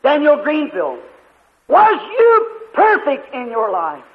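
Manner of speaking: slow, solemn voice of a heavenly judge; voice of judgment. Retold or imitated. The judge asks the evangelist if he was perfect, slow solemn voice. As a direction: question the sinner slowly and gravely. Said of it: "then the voice said".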